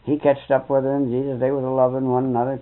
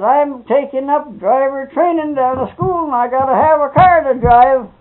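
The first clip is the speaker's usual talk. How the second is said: retold demanding daughter; 12 semitones higher, 6 dB louder than usual. Girl demanding a car from her father, imitated insistence.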